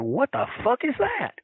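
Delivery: high-pitched mock disbelief; re-enacting a stunned double take; imitated bafflement. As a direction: ask it high, utterly thrown. Acting baffled wrestlers seeing sign.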